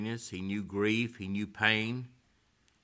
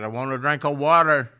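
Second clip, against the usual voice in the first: louder, higher calling out from the hall; retold plea; 6 semitones higher, 13 dB louder than usual. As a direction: imitate the old lady calling for water.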